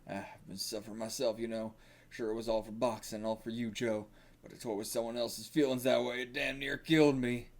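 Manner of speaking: lightly put-on country accent, subdued. Coach confessing to Joe, subdued country accent. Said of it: "like, a country accent".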